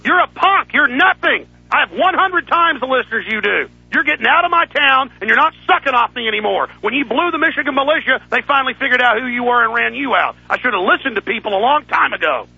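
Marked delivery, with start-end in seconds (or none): 0.1-10.4 furious rant. Real, not acted. Host yelling down a rival he calls a coward, furious. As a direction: tear into the rival like you mean it.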